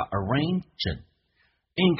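arrange，and run together smoothly; arrange和and连读; linked arrange and. Shown as a demonstration. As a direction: link the final sound of arrange into and. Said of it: "Arrange跟and连音".

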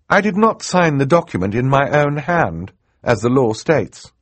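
put-on high, firm young girl's voice; earnest girl. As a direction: state your case point by point. Girl heroine voiced in narration.

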